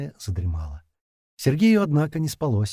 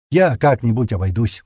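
grumbling; 6 dB louder than usual. Acted. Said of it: "пробурчал Женька".

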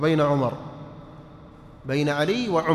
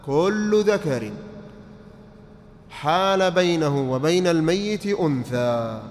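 very slow, each word spaced for writing; slow dictation; slower than usual. Shown as a demonstration. Teacher dictating the rule slowly to students. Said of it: "اكتب، اكتب".

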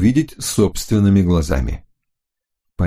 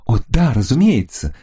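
higher, chirping female voice; chirpy; 4 semitones higher than usual. Acted. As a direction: chirp it like a pleased lady. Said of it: "прощебетала она".

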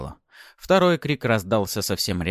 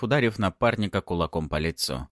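ordinary delivery

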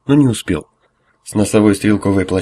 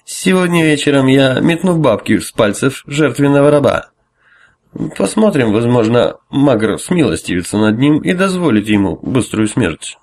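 higher, gloating tipsy cleric; drunken priest; 4 semitones higher than usual. Acted. Drunk priest gloats over slave.

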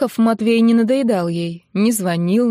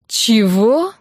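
a long, bewildered drawl; drawn-out stunned what; 3 semitones higher, 4 dB louder than usual. Acted. Taken aback girl drawls her question. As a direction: stretch it out, caught off guard. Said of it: "протянула опешившая Ниночка".

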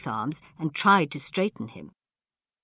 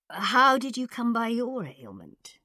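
put-on high, slow, thin old man; thin old ruler; 7 semitones higher than usual. A narrator's reading. Khan asking about doctor's ailment, thin old voice. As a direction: inquire regally in a high voice.

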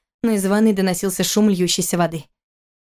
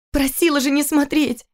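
higher, vexed exclamation; vexed exclaim; 7 semitones higher than usual. Acted. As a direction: she snaps in annoyance. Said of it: "воскликнула она раздосадованно". (раздосадованно, выше)

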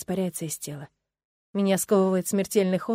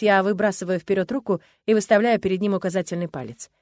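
ordinary delivery, nothing marked

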